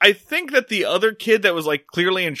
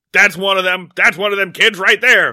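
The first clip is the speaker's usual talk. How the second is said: put-on old prospector; 2 semitones higher, 5 dB louder than usual. Old Man Foster accusing Opie.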